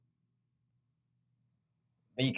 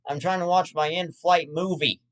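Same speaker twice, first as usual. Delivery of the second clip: mildly irritated passenger, raised pitch; mock yell; 5 semitones higher than usual. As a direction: act out an annoyed complaint to a parent. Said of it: "and just not wanna yell".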